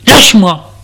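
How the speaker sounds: shout. Acted. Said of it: "lui crie".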